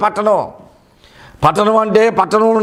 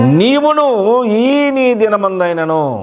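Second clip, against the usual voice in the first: slow tearful lament; 2 semitones higher, slower than usual. Retold or imitated. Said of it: "Jesus weeping over city quoted".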